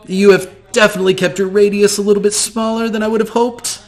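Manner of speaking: high, gushing theatrical voice; flamboyant shopkeeper. Acted. GM greeting the player as eccentric shopkeeper, high and gushing.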